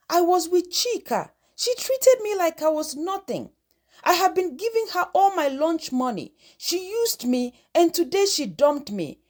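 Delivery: put-on hurt boy pouring out his pain, lightly tearful; sobbing. Boy telling his friend he was dumped, lightly tearful. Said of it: "Ekemini sobbed".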